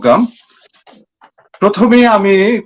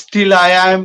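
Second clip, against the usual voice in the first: poetry recitation; 3 semitones higher than usual. Acted. Recites own poem in English.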